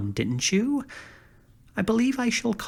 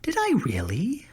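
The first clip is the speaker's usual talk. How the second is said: whisper; 7 semitones higher than usual. Acted. Flattered whispered question.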